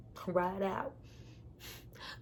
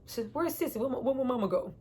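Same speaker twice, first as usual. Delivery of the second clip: put-on anxious child; 4 semitones higher than usual. Child asking for mother.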